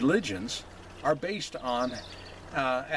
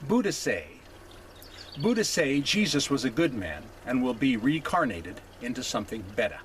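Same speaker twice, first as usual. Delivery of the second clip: lightly imitated Hawaiian dialect; mild mock Hawaiian accent, dropping off at the end. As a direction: retell the missionary's reply with a hint of Hawaiian accent. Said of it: "imitate him in his dialect and his accent".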